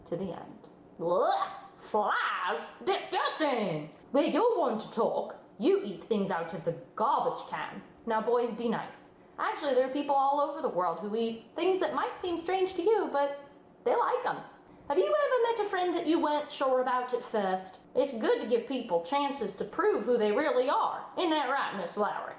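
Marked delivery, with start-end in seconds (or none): 1.0-7.8 put-on a child going ugh at bug-eating; a lightly voiced kid squabbling with his friend; disgusted kid. Kids react to the story. 8.1-22.3 put-on host soothing bickering kids, upbeat; friendly host. Host talks to puppet kids.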